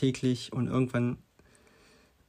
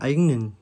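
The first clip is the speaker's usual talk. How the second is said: "eigenen" pushed out louder than the words around it; stress on eigenen; 5 dB louder than usual. Shown as a demonstration. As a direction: lean firmly on "eigenen". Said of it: "die Betonung liegt ja auf eigene Ziele".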